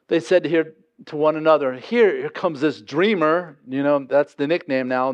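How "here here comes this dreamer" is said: derogatory sneer. Retold or imitated. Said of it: "that's a derogatory term".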